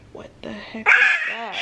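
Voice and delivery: shocked outburst at what just happened; incredulous. Retold or imitated. Retold disbelief after panic.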